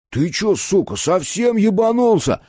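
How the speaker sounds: high, loud, furious snarl; a slow, furious snarl at the guard; angry growl. A narrator's reading. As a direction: Kolyan snarling at the man behind the gate. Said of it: "прорычал Колян".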